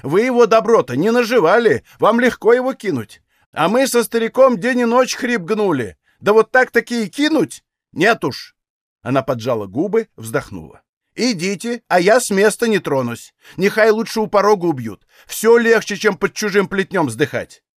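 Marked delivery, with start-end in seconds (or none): 0.0-8.6 higher, louder hurt indignation; aggrieved protest. A narrator's reading. Mother scolding the young women, aggrieved. 11.1-17.6 aggrieved protest. A narrator's reading. Mother scolding the young women, aggrieved.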